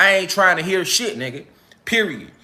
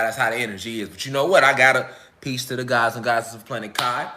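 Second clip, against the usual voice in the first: much softer, low and drained, sending peace; low energy; 8 semitones lower, 5 dB quieter than usual. Real, not acted. Signing off to the elders with drained, soft energy. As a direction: wind down, too tired to elaborate. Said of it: "this ain't the energy I'm on right now".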